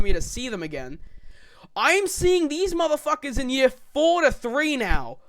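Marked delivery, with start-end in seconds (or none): 1.7-5.2 excited. Real, not acted. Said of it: "I feel like a proud father".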